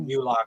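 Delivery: "Ulok" said YOU-lock; mispronounced name. Shown as a demonstration. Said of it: "I think I said it Ulok".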